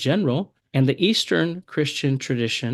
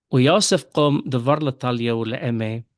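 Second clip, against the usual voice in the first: Western Syriac reading, talio with o; Western Syriac accent. Shown as a demonstration. Teacher reads verse twenty-one to students in Western Syriac accent. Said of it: "first in the Western accent".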